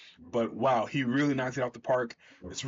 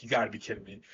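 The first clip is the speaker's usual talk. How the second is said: a lightly voiced gruff hero, lower and fed up; annoyed Hawkman; 5 semitones lower, 3 dB quieter, much faster than usual. Reviewer voicing Hawkman annoyed at Superman, mildly lower and exasperated. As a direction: mutter it like a tired old hero done with the rookie. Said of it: "And Hawkman's like".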